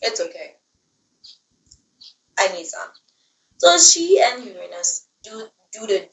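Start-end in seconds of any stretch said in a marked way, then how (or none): 0.0-2.9 restrained fuming. Retold or imitated. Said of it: "fuming, but she says".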